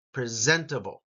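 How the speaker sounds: "Presentable" with emphasis on "zent"; stress on second syllable. Shown as a demonstration. Teacher demonstrating the emphasised syllable, stressed second syllable. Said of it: "that gets the emphasis".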